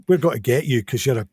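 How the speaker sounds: imitated Scottish schoolkid accent; Scottish bullies' accent. Bullies threatening the new English boy, imitated Scottish accent. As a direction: put on a Scottish bully's accent. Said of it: "they were like".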